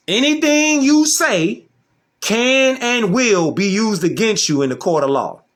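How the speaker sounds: emphatic quoting of a stock legal warning; recited cliche. Acted. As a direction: recite it like a well-known saying. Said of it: "what's the cliche line that they say".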